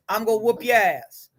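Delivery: a hint of a bully's threat; mock aggressive threat. Shown as a demonstration. Counselor demos aggressive talk to group, mildly menacing. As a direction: play the aggressive type, only lightly.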